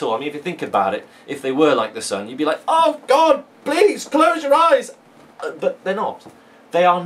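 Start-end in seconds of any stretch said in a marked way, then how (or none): 2.7-4.9 high, loud, hammed-up squeal; mock dazzled cry. Teacher jokes about sun-bright eyes, a hammed-up loud squeal. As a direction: cry out as if blinded by her eyes.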